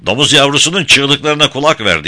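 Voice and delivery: high, loud taunting yell; furious shout. A narrator's reading. Guy shouting a taunt at Tom while hurting boy. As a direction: shout it savagely at the enemy. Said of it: "diye haykıran Guy".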